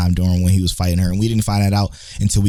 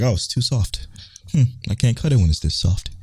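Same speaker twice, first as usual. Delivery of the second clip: calm, quiet Tanjiro; 3 dB quieter than usual. Retold or imitated. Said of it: "still talking calmly".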